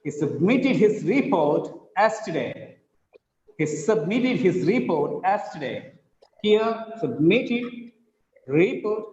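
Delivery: "submitted" stressed on "mit", measured delivery; teacher drilling stress in "submitted" and "report"; word stress demo. Shown as a demonstration. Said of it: "Look at the stress".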